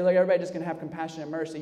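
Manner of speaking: rushed, dismissive parody of a slogan; fast mocking imitation; mock quote. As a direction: rattle it off as a shallow cliché.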